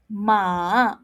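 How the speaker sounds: ma dipping low then up; third tone. Shown as a demonstration. Teacher showing third tone, horse. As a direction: dip ma down low. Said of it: "Third tone".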